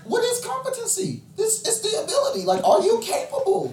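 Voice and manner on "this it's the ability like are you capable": high, laughing mock therapist. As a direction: play the calm therapist, laughing. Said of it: "It's like a therapist".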